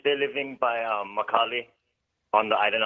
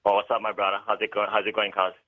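Pidgin. Shown as a demonstration. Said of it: "say something like, "How are you?".

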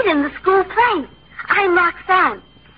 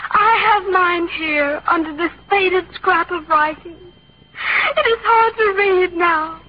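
overacted death scene. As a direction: ham up the dying heroine's lines. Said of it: "We'll do the death scene".

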